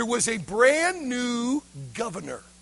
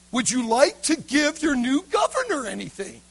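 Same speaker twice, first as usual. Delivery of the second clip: raised, pressing request; insistent governor; 2 semitones higher than usual. Acted. Governor asking the boy once more for a gift, insistent.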